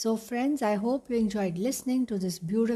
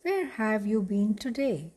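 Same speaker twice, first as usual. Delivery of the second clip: mouse asking. Acted. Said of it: "Jack asked".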